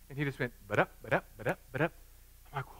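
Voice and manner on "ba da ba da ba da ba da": nonsense syllables in rising pairs; bouncy "ba-da" patter; imitated rattled-off recitation. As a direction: mimic someone reeling off verses. Imitates instant rapid recitation.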